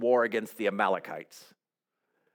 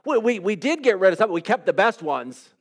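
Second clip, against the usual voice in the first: mock-defensive king explaining it away; a hint of a squirming Saul justifying himself; Saul minimizing.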